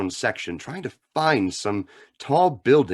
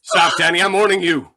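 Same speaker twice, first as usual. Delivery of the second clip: higher and louder, commanding; stern warning; 6 semitones higher, 6 dB louder than usual. Acted. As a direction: warn him firmly to stop. Hero warns the gunman.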